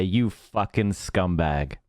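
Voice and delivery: understated, drawn-out cursing; retold slow insult. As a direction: draw the insult out with held-in anger.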